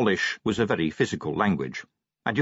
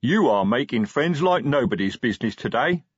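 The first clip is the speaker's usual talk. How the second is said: lightly triumphant troll voice; a troll pleased with himself; a touch of triumph in a troll voice; 5 semitones higher, 4 dB louder than usual. A narrator's reading. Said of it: "said Detritus triumphantly".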